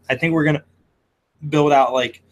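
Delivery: talking through hiccups; words broken by hiccups; hiccuping. Real, not acted. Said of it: "sorry, I'm hiccuping".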